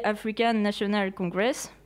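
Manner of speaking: the party name said in an English accent; a quick go at English pronunciation of "African National Congress". Shown as a demonstration. Student giving the English name in an English accent. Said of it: "mon accent anglais".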